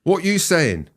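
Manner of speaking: "What you saying?" thrown out high and loud; Glaswegian demo. Shown as a demonstration. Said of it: "put it into a sentence".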